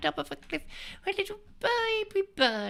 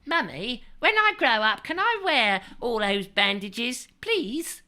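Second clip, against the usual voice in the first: put-on child's plea; 6 semitones lower, 5 dB louder than usual. Child mummy asking mother.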